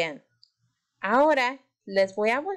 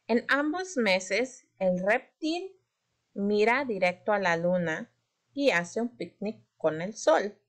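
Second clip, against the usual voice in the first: slow, deliberate poem reading; reading aloud slowly. Shown as a demonstration. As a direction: read slowly for a young learner. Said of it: "vamos a leer este poema".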